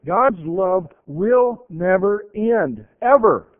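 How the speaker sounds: slow, loud build to a shouted "ever"; preaching climax. Real, not acted. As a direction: drive home "never end, ever" slowly and loudly.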